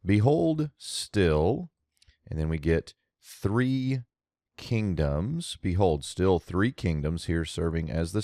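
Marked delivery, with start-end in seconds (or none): 0.0-5.6 translation read out. Shown as a demonstration. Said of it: "So here it comes".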